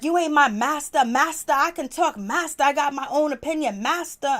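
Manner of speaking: high, loud mock backtalk; imitated defiant outburst. Shelby talks back to Miss V, imitated defiance.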